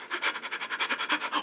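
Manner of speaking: quick, voiceless panting breaths; mock hyperventilation, quietly; breathy inner-panic pants; panicked panting.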